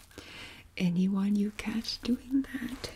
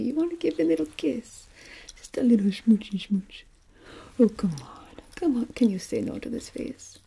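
playful pleading, much louder than the whispers; coaxing; 7 dB louder, faster than usual. Acted. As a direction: wheedle them into a little kiss. Coaxing a kiss on the skull.

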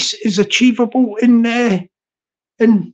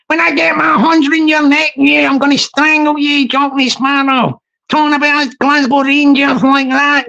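a hint of a threatening Glasgow woman, a touch higher; lightly voiced wee woman threatening him; mock angry wee woman; 3 semitones higher than usual. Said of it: "she's getting excited, isn't she?".

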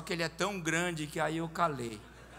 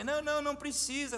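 hasty mock refusal; 9 semitones higher, faster than usual. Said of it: "Eu falei".

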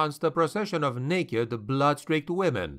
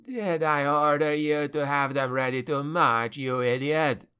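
put-on haughty young general's sneer, pitched up; 4 semitones higher than usual. A narrator's reading. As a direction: sneer contemptuously at an underling, drawing out the words. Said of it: "Fuerland sneered".

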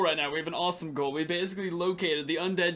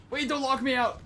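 urgent calling; 7 semitones higher than usual. Real, not acted. Calling to friends closing the door.

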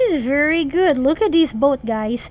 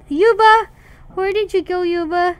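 calling out; 3 semitones higher than usual. Real, not acted. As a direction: yell his name across the map. Calling out for missing friend.

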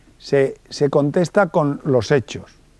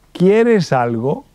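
slow, higher ¿Quieres algo?, rising at the end; asking the question; 4 semitones higher, much slower than usual. Shown as a demonstration. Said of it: "la última pregunta".

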